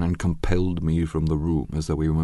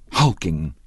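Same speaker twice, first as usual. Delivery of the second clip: insistent; 4 dB louder than usual. Acted. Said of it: "insisted Daisy".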